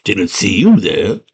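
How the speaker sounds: slow, drawn-out character reply; little goblin man voice. Acted. Goblin man answering the girl, slow character voice. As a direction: play the little guy, taking it slowly. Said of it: "And he's like".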